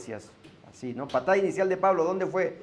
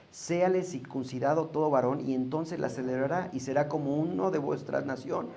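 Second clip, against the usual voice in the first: scripture reading. Acted. Reads Exodus aloud.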